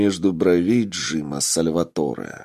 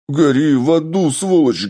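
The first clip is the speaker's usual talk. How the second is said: high, loud hysterical shout; hysterical yell; 7 semitones higher, 6 dB louder than usual. Acted. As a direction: scream it at him, losing control. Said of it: "истерично заорал раненый".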